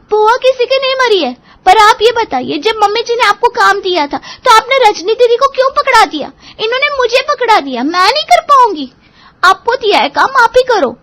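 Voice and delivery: high, loud indignant rant; angry complaint. Acted. Seema protesting to her elder sister-in-law, high angry rant. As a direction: throw the blame back at her, loudly. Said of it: "सीमा का ये चिल्लाना".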